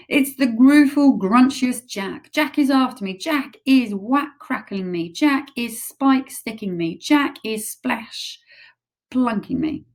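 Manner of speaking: high, loud panicked ranting; terrified raving. Acted. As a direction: rave in fear of Jack. Giant raving in terror.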